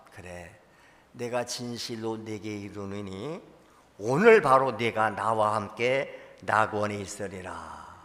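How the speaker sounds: 1 slow, solemn promise; 1 speak it slowly like a gentle king; 1 solemn Jesus. Acted. 1 Jesus answers the thief, slow and solemn.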